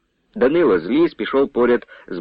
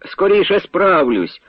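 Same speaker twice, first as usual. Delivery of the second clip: calling out; 7 semitones higher, slower than usual. A narrator's reading. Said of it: "гукнув, не озираючись".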